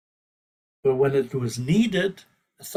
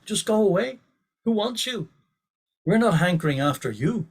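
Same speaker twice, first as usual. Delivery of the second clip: higher, heated rebuke; fired up retort; 4 semitones higher than usual. Retold or imitated. Guru fires back at a heckler, higher and heated. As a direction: throw it back hard at the heckler. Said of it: "Prabhupada was fired up".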